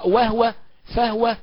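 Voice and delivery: وهو and فهو with the h left vowelless, "wah-wa, fah-wa"; silent vowel on the ha. Shown as a demonstration. Teacher showing Abu Amr's reading, وهو with a vowelless h. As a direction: close the h of وهو and فهو straight onto the w. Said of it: "بإسكان الهاء".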